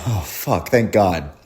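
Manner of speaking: lightly acted, exhaled relief; relieved dad. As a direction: imitate a dad letting the dread go. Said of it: "like a sigh of relief to him".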